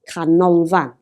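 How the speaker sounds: Canolfan with "ol" emphasised; stress on middle syllable. Shown as a demonstration. Teacher showing a three-syllable word, Canolfan stressed in the middle. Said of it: "The emphasis is on the middle one".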